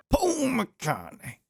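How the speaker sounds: A singer's name squeaked up high and slow; high drawn-out cartoon squeak on the name; silly high squeak. Reacting to a video, squeaking the name up high. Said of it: "Why, why did I do that?".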